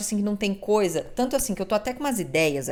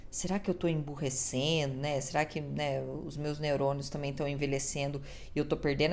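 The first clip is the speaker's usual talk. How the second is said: much softer anxious musing; worried inner thought; 5 semitones lower, 10 dB quieter than usual. Retold or imitated. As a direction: mutter the worry to yourself. Pensamento retido, bem baixo. (pensamento preocupado, bem baixinho)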